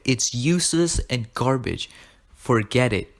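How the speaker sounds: emphatic, slowed-down acted rejection; firm, forceful mock scolding; dismissive dad. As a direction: imitate a father shutting the idea down.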